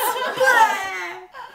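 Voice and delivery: high mock vomit noise; imitated hurling. A narrator's reading.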